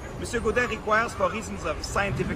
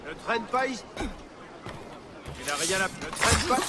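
gruff warning; slower than usual. Acted. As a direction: brush him off with a growl. Gruff street figure shoos someone.

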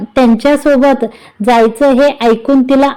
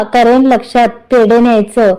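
a light teasing push on पेढे, only a touch; slight mischievous stress on पेढे. A narrator's reading. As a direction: lean gently on पेढे with a hidden smile. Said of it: "पेढेवर जोर देत ती हसून".

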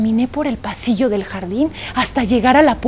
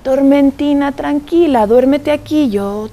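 soothing mother; 2 semitones higher than usual. Acted.

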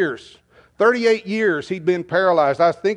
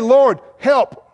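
pleading prayer; 2 semitones higher than usual. Acted. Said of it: "And we say".

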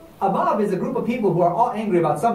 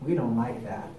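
grumbling ranchers; 6 semitones lower, 6 dB quieter than usual. Acted. Ranchers muttering in displeasure.

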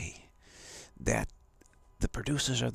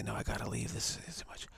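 quiet protest; 6 dB quieter than usual. Retold or imitated. Moviegoer wants to leave.

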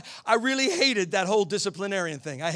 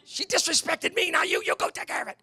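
lightly voiced higher wife refusing; a hint of a wife pushing it back on him; wife's reply; 7 semitones higher, 3 dB quieter than usual. Wife refusing to spank their daughter, lightly voiced indignation. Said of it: "She's like".

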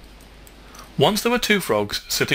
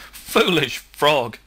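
slow, louder scoffing call; cried out; 3 semitones higher, 5 dB louder, much slower than usual. Acted. Frog mocks the frog with the stick, slow loud scoff. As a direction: drag out the insult, loud and mocking. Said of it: "he cried".

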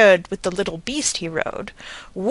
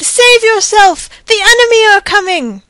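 desperate warning; 11 semitones higher, 4 dB louder than usual. A narrator's reading. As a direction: warn the king in panic. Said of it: "he cried".

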